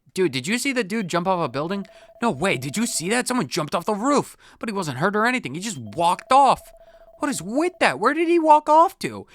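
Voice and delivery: high, excited schoolkid gossip; excited kid. Acted. Pupil tells the detective about the jump, high excited. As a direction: squeal the news of the jump.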